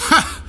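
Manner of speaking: a burst of laughing relief; relieved laughing shout. Acted. Pilot surviving the blast, bursting into a laughing cry.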